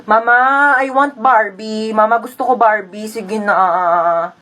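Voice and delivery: lightly voiced kid, slow pleading; begging child. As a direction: drag out the plea to mama. Plays child begging for Barbie. (batang nangungulit)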